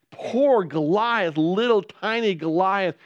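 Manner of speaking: slow, drawn-out mock pity on Poor Goliath. Shown as a demonstration. Preacher mocking the giant with slow mock pity. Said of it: "It's not poor David".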